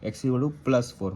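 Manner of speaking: very slow, spelling out the answer; slow dictation. Shown as a demonstration. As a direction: dictate it word by word. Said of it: "क्या होगा". (धीरे-धीरे बोलकर लिखवाना)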